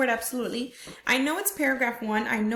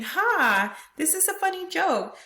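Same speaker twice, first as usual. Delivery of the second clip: acted happy amusement; 6 semitones higher than usual. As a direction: play a girl tickled by the joke. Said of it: "she's actually feeling happy".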